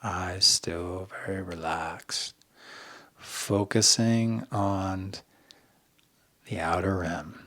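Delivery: softened, unhurried meditation cues; guided meditation. Shown as a demonstration. Coach keeping listeners' eyes relaxed on the rim, soft meditation voice. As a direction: ease quietly through the words with pauses. Leads a breathing practice.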